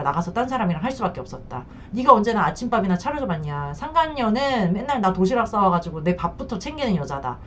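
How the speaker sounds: mock the spouse's gaslighting accusations; mocking the cheating spouse. Cheating spouse blaming the wife, lightly voiced accusation. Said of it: "바람피운 배우자가 우리를 가스라이팅 할 때".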